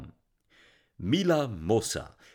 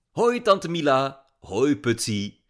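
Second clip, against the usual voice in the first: a lightly voiced young girl, slow and sweet; slow, sweet hello from a young girl; lightly voiced girl greeting her famous aunt; bright girl greeting; 5 semitones higher, 7 dB louder, slower than usual. A narrator's reading.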